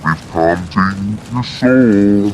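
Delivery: slow, drawn-out monster voice; creepy soul-eater, stretching every word. Shown as a demonstration. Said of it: "you want me to do the monster voice".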